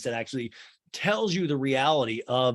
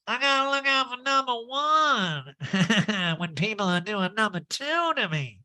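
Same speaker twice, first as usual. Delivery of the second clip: high, drawn-out nasal impression; brassy stuffed-up mock voice; hammed-up high imitation; Erica Jane; 9 semitones higher than usual. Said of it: "that Erica Jane imitation".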